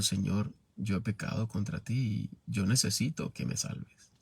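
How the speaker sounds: tearful prayer. Retold or imitated. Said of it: "Llorando y reconociendo".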